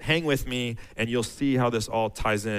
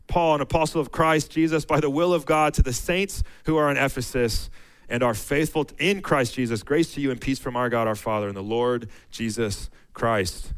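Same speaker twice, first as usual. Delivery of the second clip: raised, measured reading of the verses; scripture reading; 2 semitones higher than usual. Acted. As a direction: read it out like a pulpit lesson. Reads Ephesians aloud.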